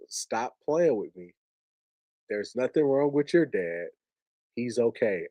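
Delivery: soft, low retold denial; very calm. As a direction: insist quietly, imitating his calm. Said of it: "he was very calm voice".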